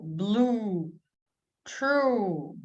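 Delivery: "blue" and "true" with a long rounded oo; oo sound. Shown as a demonstration. Teacher showing learners the oo vowel. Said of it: "this one is oo sound".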